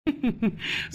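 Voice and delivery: short, low, quiet chuckle; a small chuckle under the breath; soft chuckle. Acted. Husband about to flatter his wife, soft chuckle.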